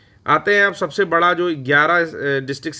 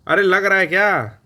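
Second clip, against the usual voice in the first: raised, slow classroom shout; shouting at class; 4 semitones higher, 4 dB louder, slower than usual. Acted. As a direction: call out to the class, louder and higher. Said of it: "इतना क्यों चिल्ला रहे हैं?".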